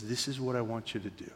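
softened, intimate instruction; gently hushed, still voiced; imitated whisper. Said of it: "in a whisper".

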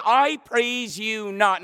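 slow, measured disdain; disdainful, deliberate rebuke. Acted. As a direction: draw it out in stern disapproval. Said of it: "the disdain for the behavior in his tone".

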